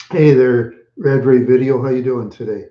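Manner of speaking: loud cheerful welcome; loud greeting. Real, not acted. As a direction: call out to welcome the newcomer. Greeting a new viewer.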